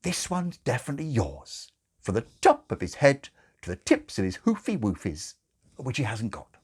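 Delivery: a hint of nurse, hasty. Nurse hastily reassures the father about the baby. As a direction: rush to reassure, then correct. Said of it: "she added hastily".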